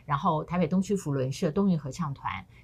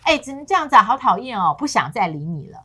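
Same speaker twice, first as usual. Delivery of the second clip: annoyed complaint; 2 semitones higher, 6 dB louder than usual. Retold or imitated. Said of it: "所以男生觉得".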